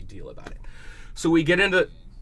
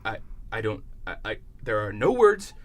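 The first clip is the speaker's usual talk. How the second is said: shaky; 6 semitones lower, 5 dB quieter than usual. Retold or imitated. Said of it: "He's literally shaking".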